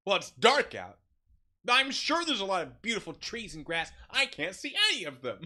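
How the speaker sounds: flamboyant, high, loud complaint; hammed-up diva on the phone; loud, theatrical imitation of a diva. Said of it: "there's a flamboyance to it".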